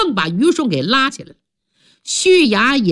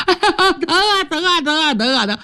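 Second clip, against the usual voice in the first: groaning in pain; 8 semitones higher than usual. Acted. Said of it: "疼得六指直哎呀".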